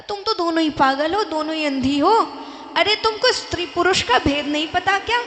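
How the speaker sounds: father-in-law scolding both women, loud and exasperated. Retold or imitated. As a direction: tell them off for being blind.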